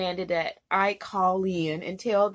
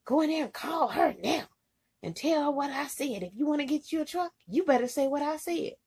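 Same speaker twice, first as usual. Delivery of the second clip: higher-pitched mock bossy command; imitated angry order; 5 semitones higher than usual. Trainer ordering her to call, imitated stern demand.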